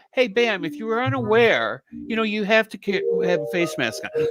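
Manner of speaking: courteous reminder, easing down at the end; proper, polite reminder. Shown as a demonstration. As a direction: model a considerate heads-up, no yelling. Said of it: "The proper way is".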